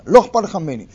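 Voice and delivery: accusing. Retold or imitated. Voicing spouse in a fight.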